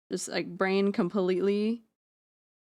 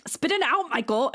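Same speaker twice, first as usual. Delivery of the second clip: much higher, louder mock command; imitating a stammered command; 6 semitones higher, 4 dB louder than usual. Streamer retelling a friend's stammered line, mock command. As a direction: bark it like the stammering friend did. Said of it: "She's like".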